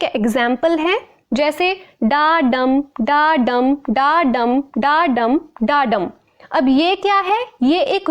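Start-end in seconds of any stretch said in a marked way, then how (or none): 2.0-6.1 "डा डम" five times in measured pairs, stress on डम; iambic rhythm demo. Shown as a demonstration. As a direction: slowly beat out "डा डम", unstressed डा leading into stressed डम. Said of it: "हमारी जो टोन है उसमें एक स्ट्रेस".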